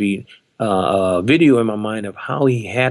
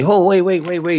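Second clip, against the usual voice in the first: retold urgent halt; 8 semitones higher, 3 dB louder than usual. Bandmate halts the playing, retold.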